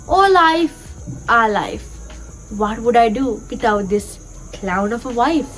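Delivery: measured poem reading with lightly lifted pitch; gently expressive classroom verse reading; poem recitation. Acted. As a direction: recite it line by line, pausing between phrases.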